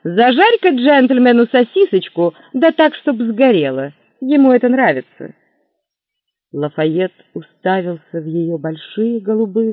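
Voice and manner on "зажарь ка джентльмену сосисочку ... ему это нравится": mocking barmaid. Barmaid mocking call to cook.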